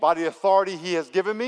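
rising, forceful prayer call; loud preacher's command. Shown as a demonstration. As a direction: call it out for the room to echo. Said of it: "say this out loud".

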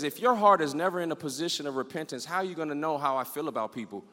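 low, soft and solemn; quiet divine voice. Retold or imitated. God speaking to the preacher in that moment, low and quiet. God's quiet word retold.

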